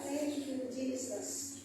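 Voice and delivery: soft, fading last words of a dying woman; a hint of a dying grandmother; dying whisper. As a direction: let the words fade out like a last breath.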